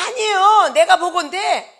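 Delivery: high, loud imitated objection; hammed-up congregant's rebuttal; mock protest. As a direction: contradict the pastor as a protesting churchgoer. Acts out congregant contradicting pastor.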